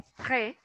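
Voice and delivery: "pré" with a clear closed é; acute accent pronounced. Shown as a demonstration. Teacher explaining the first accent, "pré" sounded on its own. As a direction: sound out "pré" as a separate syllable. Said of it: "que es el que se pronuncia".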